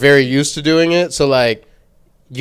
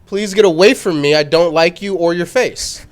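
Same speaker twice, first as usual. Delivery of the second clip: mock cold rejection; 2 semitones higher than usual. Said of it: "That sounds like".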